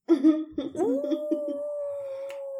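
long, high, delighted laugh; high burst of laughter. Real, not acted. Laughs at her answer.

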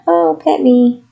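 high, sweet begging dog voice; pleading dog. Retold or imitated. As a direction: beg to be petted like a little dog. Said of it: "she's like".

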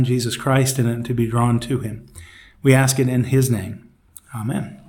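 earnest, unforced group prayer; spoken prayer. Real, not acted. Leader opening Bible study with thanks to God, prayerful. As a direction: pray plainly for the group, pausing to find words.

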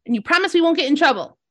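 high, fast worried little creature; small creature voice. Acted. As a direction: ask it quickly like a nervous tiny creature. GM voices Donkey.

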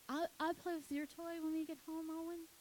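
put-on high-pitched toddler voice; put-on high kiddie voice; little child. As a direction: imitate a small boy chatting to a sibling. Younger child talking to brother, retold.

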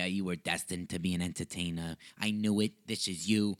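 lightly voiced imitation of his aunt; a hint of a fond aunt proclaiming; mild mock aunt voice; imitating aunt. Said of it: "my aunt really doesn't sound like that".

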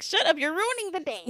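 retold shut-up, half playful; exasperated retort. Acted retort on spoiled date.

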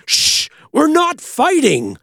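high, loud, slow shout; yelling back. Retold or imitated. Brother shouting back to their mother. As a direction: shout the denial down the hall.

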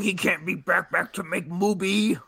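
high, hammed-up scandalized voice; mock outraged critic. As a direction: parody a pearl-clutching critic. Mocking critics of James Gunn.

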